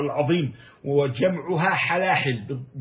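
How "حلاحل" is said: "حلاحل" with an a after the ha, halahil; fatha on the ha. Shown as a demonstration. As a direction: say "حلاحل" as HA-laa-hil. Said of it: "بفتح الحاء".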